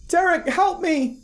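very high, slow monotone cry for help; emotionless monotone mimic. A narrator's reading. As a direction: sound like an eerie recording of a voice played back. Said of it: "A monotone with no emotion".

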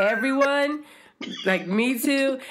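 put-on high little kid voice chiming in; a hint of a toddler insisting; child imitation. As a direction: pipe up like a small child wanting to join. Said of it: "Karis goes".

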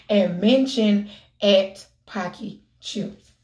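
slow deliberate read of package text; slowly reading the chip rules to viewers; reading the label aloud. Real, not acted.

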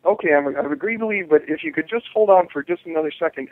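mildly conciliatory request; understated cooperative tone; reasonable tone. Shown as a demonstration. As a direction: politely ask for a moment, agreeable and even. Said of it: "that's the tone of voice".

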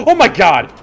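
loud, very high relieved exhale; relieved gasp. Real, not acted. Gamer relieved after scare, high gasp. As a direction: blow out the fright.

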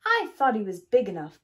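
a big truck scolding; booming. A narrator's reading. Digger booming in disappointment at bulldozer. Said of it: "boomed Digger".

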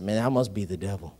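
low, laughing scoff; deep amused scoff at the idea; laughing disbelief. Retold or imitated. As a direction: chuckle it off as nonsense. Jokingly doubts God's instruction.

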